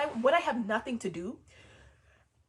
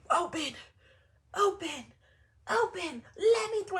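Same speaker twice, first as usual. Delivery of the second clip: pleading, rising higher with each open until let me through; desperate pleading; 9 semitones higher, slower than usual. Acted. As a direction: beg the door to open, more frantic each time. Pleading at closed door.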